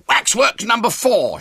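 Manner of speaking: high, very loud showman's shout; straining boyish shout, pitched right up; hoarse shout. A narrator's reading. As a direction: yell the announcement over the commotion. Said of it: "shouted William hoarsely".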